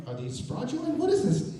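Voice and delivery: rising, high incredulous questions; suspicious disbelief. Retold or imitated. Fan wonders about the new tickets, high and incredulous. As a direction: sound baffled and suspicious. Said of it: "I'm like".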